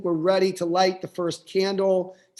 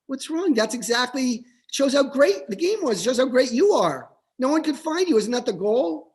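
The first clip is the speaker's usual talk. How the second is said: higher, bright cheering father; a dad pumping up his son, higher; upbeat dad; 6 semitones higher than usual. Retold or imitated. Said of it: "And his dad's like".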